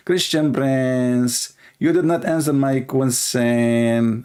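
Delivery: slow, drawn-out mock caller voice; imitating the Indonesian caller. Caller complaining to Christian Prince, mock slow. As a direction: spell it out slowly like the caller did. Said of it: "I'm going to speak like this".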